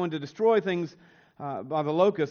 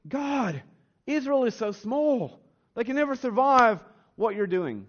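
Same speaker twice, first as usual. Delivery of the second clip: pleading Amos; 5 semitones higher than usual. Retold or imitated. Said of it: "he cries out to them and says".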